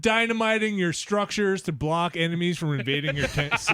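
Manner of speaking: upbeat TV-ad announcer, laughing; infomercial voice. Pretend. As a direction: sell it like a late-night ad. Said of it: "You sound like an infomercial".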